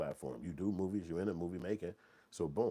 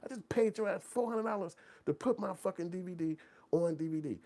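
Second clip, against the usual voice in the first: indignant rant; 13 semitones higher than usual. Retold or imitated. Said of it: "I'm like".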